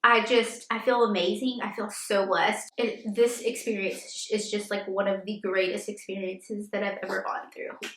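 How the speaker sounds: quietly moved, close to tears; emotional. Real, not acted. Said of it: "getting a little emotional here".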